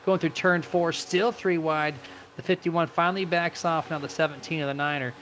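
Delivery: animated race commentary; live play-by-play. Real, not acted. Race announcer calling a loose car for viewers, live play-by-play. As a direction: call the racing as it unfolds.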